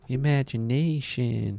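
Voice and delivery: SpongeBob voice. Retold or imitated. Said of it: "Did he say it like SpongeBob".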